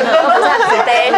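slow, drawn-out pious intoning; mock solemn. Mimicking the master's slow pious blessing. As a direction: intone it slowly like a devout master. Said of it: "好，就是菩萨慈悲".

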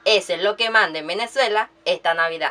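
lightly declaimed rhyming verse; recited comic monologue. Acted. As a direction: recite it like a satirical Christmas poem. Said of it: "les voy a recitar un monólogo". (recitado de monólogo cómico)

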